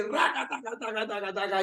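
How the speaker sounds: rattled-off run of repeated tongues syllables; imitated tongues. Preacher shows his friend how he prayed, imitated tongues. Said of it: "hablaba en lengua".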